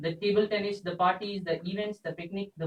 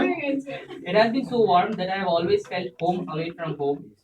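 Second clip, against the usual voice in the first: tearful goodbye; 3 semitones higher, 5 dB louder than usual. Real, not acted. Farewell speech, laughing through emotion.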